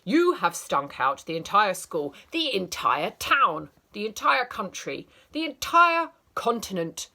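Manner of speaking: teacher ranting about egg sandwich; escalating rant. Acted. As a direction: build the outrage wider.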